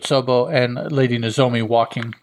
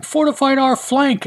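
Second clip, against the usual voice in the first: yelling; 13 semitones higher than usual. Acted. Lady Nozomi yells orders to the troops, high and urgent. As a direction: shout the order over the noise. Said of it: "she yells as they go running".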